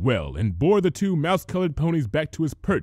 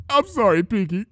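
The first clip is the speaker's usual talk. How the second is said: laughing apology; 9 semitones higher, 5 dB louder than usual. A narrator's reading. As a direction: apologize through giggles. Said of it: "said Spike sincerely".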